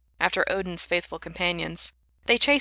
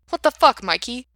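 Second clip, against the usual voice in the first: high, loud incredulous burst; appalled, high-pitched protest; outraged disbelief; 6 semitones higher, 9 dB louder than usual. Acted. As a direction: yell it in shock, easing off on the name. Outraged reply to brother's question.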